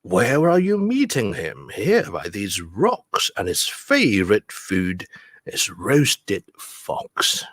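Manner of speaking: slow, deliberate rhyming-verse delivery; story reading. Acted. Teacher reading rhyme to the class, slow rhythmic storytelling. Reads the picture book aloud.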